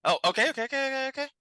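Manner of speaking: high, rattled-off okays; hurried compliance. Acted. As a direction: agree in a rush, voice climbing.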